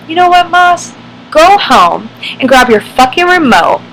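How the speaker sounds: loud, high barked order, imitating a furious sergeant; angry sergeant yelling. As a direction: shout it down at a recruit like a drill sergeant.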